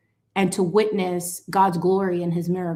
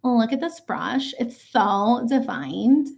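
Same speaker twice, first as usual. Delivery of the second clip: a hint of a beauty-ad presenter, drawn out; slow, showy makeup-commercial pitch; lightly voiced makeup tutorial host; slower than usual. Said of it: "let me do the makeup thing".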